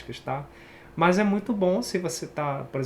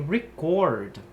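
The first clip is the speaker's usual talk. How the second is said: reCORD, pulled to the second syllable; verb stress. Shown as a demonstration. Teacher showing students the verb stress. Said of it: "já puxado pra outra sílaba".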